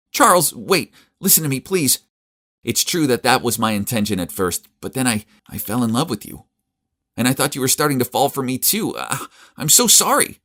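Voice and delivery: high desperate begging; pleading. Acted. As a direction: beg him to listen.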